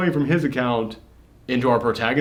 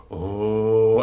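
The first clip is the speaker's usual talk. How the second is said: little audience "oh"; 3 semitones lower than usual. Retold or imitated. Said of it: "let out a little".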